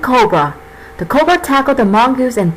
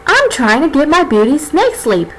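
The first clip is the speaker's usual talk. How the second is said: snake character voice; 5 semitones higher than usual. Acted. Cammy complains, just woken.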